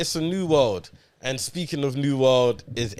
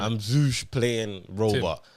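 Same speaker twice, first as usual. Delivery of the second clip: robot voice; 2 semitones lower, much slower than usual. Pretend. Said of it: "uh, robot".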